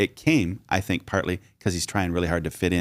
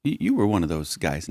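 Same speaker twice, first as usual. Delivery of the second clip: put-on accusing servant girl; 3 semitones higher than usual. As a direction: catch him out, pointing. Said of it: "She goes".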